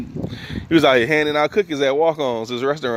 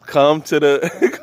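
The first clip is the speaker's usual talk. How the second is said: principal on the intercom; slower than usual. Retold or imitated. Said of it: "Called him over the intercom".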